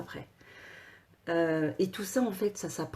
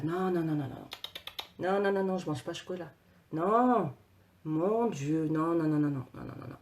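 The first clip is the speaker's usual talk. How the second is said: mock panicked refusal. Dieter craving chocolate but refusing, mock panic. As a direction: play a dieter resisting temptation, lightly frantic.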